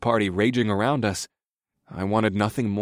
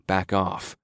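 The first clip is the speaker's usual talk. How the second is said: calm. Acted. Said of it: "in as calm a voice as I could muster".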